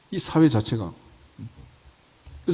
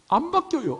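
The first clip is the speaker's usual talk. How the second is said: high teasing squeal; 3 dB quieter than usual. Acted. Preacher teasing his flock about dialect, high playful squeal. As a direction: jump way up, playful and mocking.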